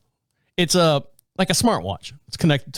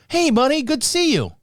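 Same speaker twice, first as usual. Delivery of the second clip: higher, perky nurse greeting; chirpy older nurse; 10 semitones higher than usual. Retold or imitated. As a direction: greet him like a friendly nurse. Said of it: "because she goes".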